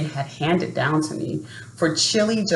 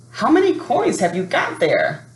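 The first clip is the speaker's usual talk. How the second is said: much higher questioning seller's voice; tall skinny man; 8 semitones higher than usual. Acted. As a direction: ask it high, curious and amused. Seller asks the boy.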